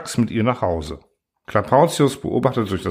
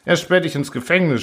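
shouting threat; 6 semitones higher than usual. Acted. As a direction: yell at him to let go. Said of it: "schrie Truhl".

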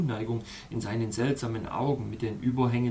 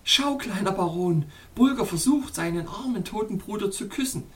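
higher, amused princess voice; 7 semitones higher than usual. Acted. Princess points out the dog kissing the ice, amused high voice. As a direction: tease him, still amused, pitched up. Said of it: "lachte sie".

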